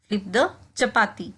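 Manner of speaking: slow, careful drill phrase; slowed classroom demo; slow model repetition. Shown as a demonstration. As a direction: say it slowly for learners to copy. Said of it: "इसको हम कहेंगे".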